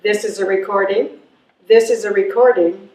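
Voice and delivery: answering machine message. Acted. Recorded God's message to callers, mildly mechanical.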